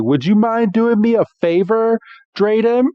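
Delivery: play-acted hopeful asking; eager kid asking. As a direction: ask a favor like a keen kid. Iris asking Drayden a favor.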